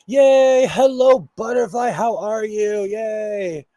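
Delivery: loud, high squeal of joy; excited cheer. Real, not acted. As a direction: cheer the newcomer in. Greeting a viewer joining.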